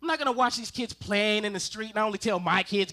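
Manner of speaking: usual speaking voice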